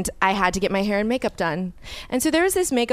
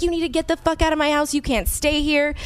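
mock screaming; 6 semitones higher than usual. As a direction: imitate someone throwing a person out in a shouting match. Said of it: "they start screaming, cursing at each other".

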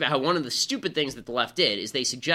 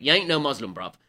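lightly put-on Cockney, dropping on the last word; imitated Cockney accent. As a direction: say it as a mock Cockney. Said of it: "do it in a Cockney accent".

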